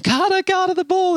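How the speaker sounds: high-pitched mock yell; imitated yelling. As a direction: call out like a frantic crowd at a game. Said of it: "everyone's yelling at him".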